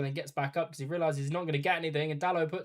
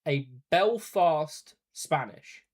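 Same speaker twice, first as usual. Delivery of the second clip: slow, louder, baffled repeat of Belfast Spanish; incredulous repeat; 7 dB louder, much slower than usual. Real, not acted. To co-commentator, baffled by the accent, slow incredulous repeat. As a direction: drag it out in disbelief. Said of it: "what does that even sound like".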